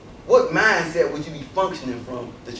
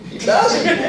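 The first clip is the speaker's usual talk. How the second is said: mocking, much higher and louder fawning voice; mock admirer; 8 dB louder than usual. Mimicking people who praise a speaker of French. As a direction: gush like an impressed onlooker. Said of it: "you say".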